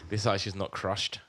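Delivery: snooty complaint. Pretend. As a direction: play the fussy guest, looking down. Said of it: "pretending to be dickheads".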